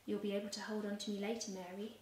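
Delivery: soft and tender, trailing quiet on the name; gentle comfort, name almost breathed; gently. Acted. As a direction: reassure her softly. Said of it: "Jesus said gently".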